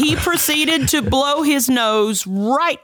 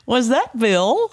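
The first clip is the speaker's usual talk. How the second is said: talking through a frozen smile; through gritted teeth; 3 semitones higher, slower than usual. Retold or imitated. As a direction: push the words out between clenched teeth. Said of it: "talk through your teeth as you're smiling".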